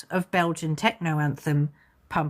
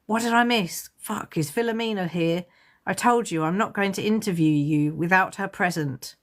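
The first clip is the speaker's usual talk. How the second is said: put-on grumpy old man; 2 semitones higher than usual. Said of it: "grumpy old man voice calling".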